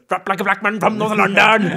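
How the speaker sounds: loud, high-pitched put-on London accent; odd London accent. Shown as a demonstration. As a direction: belt it out in a strange London accent. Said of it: "i en konstig accent".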